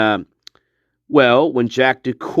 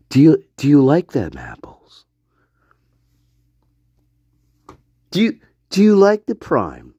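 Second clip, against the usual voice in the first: mock whisper. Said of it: "whispering under her breath".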